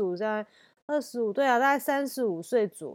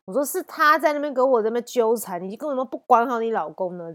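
retold defiant comeback, somewhat louder; loud retort; 2 semitones higher, 4 dB louder than usual. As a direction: push back at her, challenging. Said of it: "很大声呛回去".

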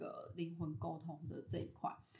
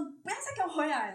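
retold angry yell, higher, louder and fast; angry order; 8 semitones higher, 6 dB louder, faster than usual. Telling of the dream, she orders the ghost never to return, angrily. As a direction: throw the ghost out with heat. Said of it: "我超生气".

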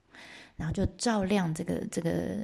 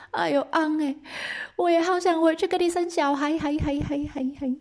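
high, hammed-up wail with echoes; wife's echoing lament; moved, sorrowful call; 9 semitones higher than usual. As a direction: call back longingly, last word fading like an echo. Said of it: "很难过啊".

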